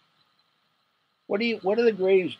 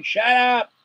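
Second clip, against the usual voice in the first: a sudden high yell at a blaring car alarm; mock shout; 9 semitones higher, 4 dB louder than usual. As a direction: bark it up high and loud, fed up. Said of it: "everybody was going".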